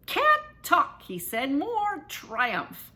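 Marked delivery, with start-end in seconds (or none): 0.1-1.0 high, loud, giddy; breathless brush-off. A narrator's reading. Boy mid-victory dance brushing off his friend, giddy. Tanner too busy dancing.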